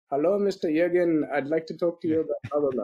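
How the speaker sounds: put-on joking Indian-accented cold caller. Telemarketer cold-calling a prospect, mock Indian accent. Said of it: "that's my best Indian accent".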